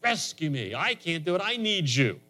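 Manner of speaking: plea that climbs in pitch; crying out better. Shown as a demonstration. Preacher shows how to cry out to God, pleading, pitch climbing. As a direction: cry out to God, rising as it goes. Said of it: "We can cry out a little bit better with that".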